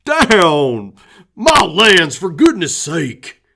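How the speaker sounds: loud, high startled shout at the dog; old man shouting at a jumping dog. Acted. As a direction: yell to push the dog off. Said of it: "Red shouted".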